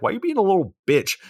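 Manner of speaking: high and fast, snapping; drunk snappy Becca. Retold or imitated. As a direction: snap at him, quick and high. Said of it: "Becca's like".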